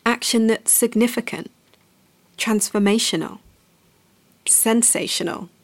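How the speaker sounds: deadpan meme voice with long pauses. Pretend. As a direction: hype each word like an internet meme. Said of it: "Yes, I'm doing that in the meme voice".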